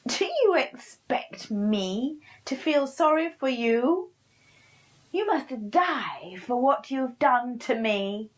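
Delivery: high, loud witch's threat; menacing witch. Acted. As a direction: threaten him in a harsh witch voice.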